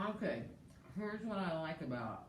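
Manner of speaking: talking through a mouthful of food; words round a bite of food; mouth full. Real, not acted. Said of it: "I can't talk with my mouth full".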